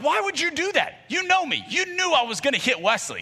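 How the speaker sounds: outraged yell. Retold or imitated. Yelling at his older brother for tricking him. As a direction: yell it like you've been played.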